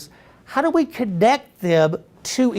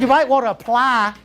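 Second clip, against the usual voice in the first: dry registrar; 2 semitones higher than usual. Retold or imitated. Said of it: "He said".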